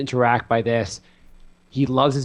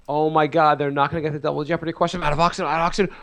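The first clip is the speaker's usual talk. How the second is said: mock panic; 3 semitones higher, faster than usual. Teasing friend's anxiety over a quiz show, mock panic. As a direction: pretend to panic over nothing. Mimics panicking Jeopardy viewer.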